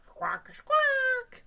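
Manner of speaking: loud high quacking bird. Acted. Reader voicing the bird saying hello.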